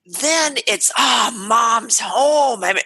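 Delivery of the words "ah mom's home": slow, drawn-out cheer; happy greeting. Shown as a demonstration. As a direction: call out gladly that mom is back. Kids greeting mom happily.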